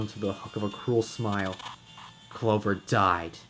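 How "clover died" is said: cold. Acted. Ace's cruel reveal.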